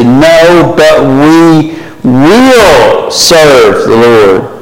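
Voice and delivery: slow, insistent promise; the people answering Joshua, slow and insistent; emphatic reply. Retold or imitated. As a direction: declare it like a people vowing loyalty. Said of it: "They say".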